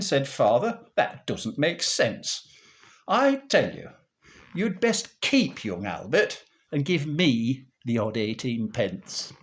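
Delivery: rhythmic music-hall monologue delivery; comic verse recitation. Acted. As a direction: recite it like an old comic monologue, bouncing on the rhyme.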